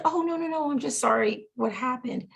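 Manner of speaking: high-pitched imitation of a nurse; imitated hasty reassurance. Nurse to tearful patient, imitated hasty reassurance. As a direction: correct the misunderstanding in a lifted voice. Nurse hastily correcting a misunderstanding.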